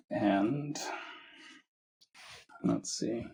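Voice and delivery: measured meditation guidance with long pauses; unhurried phrases, each given room to settle; guided meditation. Acted. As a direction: guide listeners gently, leaving space between phrases. Leads a guided meditation after chat.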